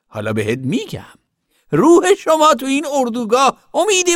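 very high, loud scolding woman; loud, outraged zealot. A narrator's reading. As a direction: rail against sinners, high and forceful. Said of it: "با صدای بلند گفت". (با صدای بلند و زیر، پرخاشگرانه)

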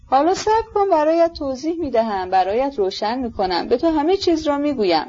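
put-on pleading, swooping lament of an old father; distraught old general. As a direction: beg for patience, then lament. (ژنرال پیر، آشفته و نالان)

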